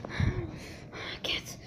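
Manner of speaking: puffing and panting between phrases; winded climbing stairs. Real, not acted. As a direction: strain the words out while gasping from the climb. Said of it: "I'm climbing the stairs right now".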